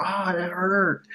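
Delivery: slow, high, limp "ouch"; mock hurt. Victim kicked in the shin, faking mild hurt slowly. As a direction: play down the pain like it's nothing. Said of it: "you know, you're".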